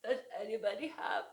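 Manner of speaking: a fast, mumbled little flea plea; lightly voiced sniffly flea; garbled plea. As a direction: rush it out like a stuffy-nosed bug. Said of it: "his garbled plea".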